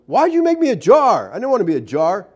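high, petulant yell of a jar; jar yelling at potter. Acted. The jar yells back at the potter in a high whine. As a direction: whine like a pot that hates its shape. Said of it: "the jar yells at him".

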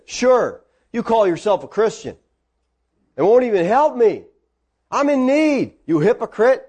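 mock offended accusation; acted, mildly scolding protest; indignant retort. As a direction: throw it back as an affronted woman. Imagined indignant reply to a refusal.

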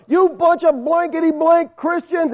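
imitating the homeless man cussing, not at full force; mock yell. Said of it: "He's just yelling".

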